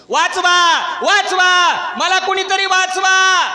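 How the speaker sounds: high, loud, drawn-out cry for help; shouting for help. Retold or imitated. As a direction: scream for help while drowning. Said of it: "तो मोठ्याने ओरडू लागला". ("वाचवा" असं मोठ्याने, उंच आवाजात ओरडत मदत मागणे)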